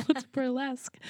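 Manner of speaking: 1 puzzled question. Retold or imitated. Friend's puzzled question retold.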